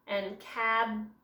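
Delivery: cabin said slowly, cut into cab and in; split into syllables. Shown as a demonstration. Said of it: "So this would be secret".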